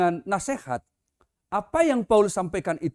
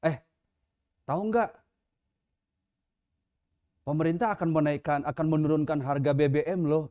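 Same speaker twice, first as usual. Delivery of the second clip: light, chatty gossip tone, lifting a little; casual good news; 3 semitones lower than usual. Retold or imitated. Preacher showing how good news is told, casual and relaxed. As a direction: share it like happy news over coffee. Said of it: "Misalnya begini".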